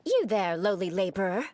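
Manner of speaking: stiffly imperious address to a commoner; a touch of lofty aristocratic decree; haughty noble. Acted. The speaker plays haughty aristocrat.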